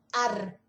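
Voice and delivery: "ar" with a tapped Oslo r; the Oslo "ar", front tongue r; "ar" como se fala em Oslo; Oslo pronunciation. Shown as a demonstration. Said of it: "Eles usam muito r".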